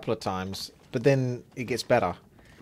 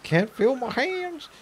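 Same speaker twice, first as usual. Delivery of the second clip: high mock whine; 5 dB louder, slower than usual. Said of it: "game character line repeated".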